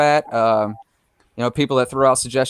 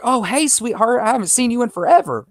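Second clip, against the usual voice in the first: high-pitched gushing greeting, imitating an older lady; mock yell at no real volume; older lady calling out; 11 semitones higher than usual. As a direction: mimic her hailing a long-lost friend, pitched way up. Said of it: "she yells, and she's like".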